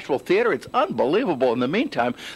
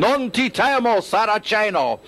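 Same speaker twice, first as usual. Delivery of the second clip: higher, theatrical Italian battle cry; mock puppet scream; 4 semitones higher, slower than usual. Reporter imitating puppeteers behind screens, mock screamed defiance. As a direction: declaim it like an old Sicilian puppeteer. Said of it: "scream things like".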